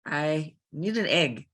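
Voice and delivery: thick African accent, a little slow; heavy African accent. Shown as a demonstration. Trying out a heavy African accent for the interviewer. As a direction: overdo the African accent on purpose. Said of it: "too heavy of an accent".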